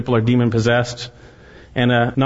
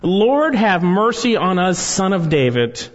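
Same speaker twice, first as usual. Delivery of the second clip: mild cry, high at the start then easing down; crying out for mercy; 5 semitones higher than usual. Acted. Blind men by the road to Jesus, lightly crying out. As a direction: call out a read-aloud plea. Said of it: "cried out".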